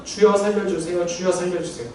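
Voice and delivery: a touch of a deacon crying out to the Lord; mild desperate plea. Retold or imitated. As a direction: plead lightly, like a desperate prayer retold. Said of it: "집사님의 기도를 계속해서 들었는데요".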